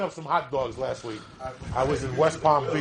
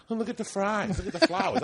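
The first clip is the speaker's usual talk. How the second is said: much higher, airy wonder at everything; hammed-up distracted friend cooing over the fries; mock dreamy diner; 9 semitones higher than usual. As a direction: play the friend who gawks instead of ordering.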